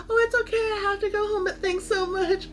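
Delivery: high-pitched, retold polite thanks; polite brush-off. Voices own polite refusal to friends.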